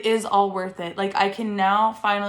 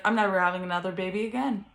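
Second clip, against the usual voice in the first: laughing exasperation. Retold or imitated. Retelling newborn days to moms, laughing refusal. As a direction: laugh it off, done with babies. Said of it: "I was literally like".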